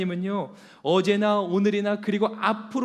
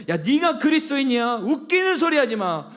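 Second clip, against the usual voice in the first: loud, high jeering taunt of the accuser; mocking devil; 7 semitones higher, 6 dB louder than usual. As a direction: sneer at the listener as the devil. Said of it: "사단 마귀가 지금도 여러분들의 마음을 참소해요".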